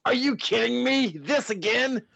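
high, fast panicked voice; panicking in disbelief. Acted. Morty panics at Terry.

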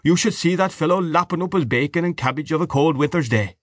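mock the man with relish; coarse, mocking Mr Dedalus.

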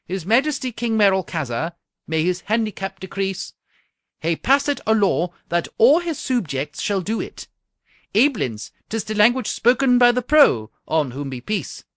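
loud, high Scots brogue; Scottish accent. Acted. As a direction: proclaim it in broad Scots. Charioteer explains in Scots.

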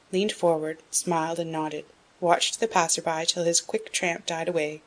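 usual speaking voice

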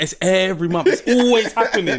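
exasperated rant. Retold or imitated. Acting out friend's rant about bills.

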